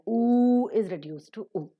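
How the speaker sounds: long "oo", then a short lax "oo"; long then weak vowel. Shown as a demonstration. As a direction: stretch the first "oo", keep the second "oo" brief. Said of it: "long or the strong vowels are reduced".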